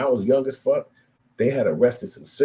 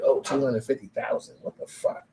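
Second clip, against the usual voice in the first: stunned squeak at the money; mock disbelief at the sum; shocked; 4 semitones higher, 5 dB quieter than usual. Kid stunned by his inheritance, squeaky shock.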